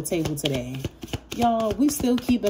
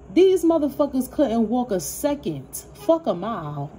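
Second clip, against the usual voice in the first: higher and louder, heated; angry outburst; 5 semitones higher, 4 dB louder than usual. Real, not acted. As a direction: let the anger out at the haters. Angry outburst defending the client.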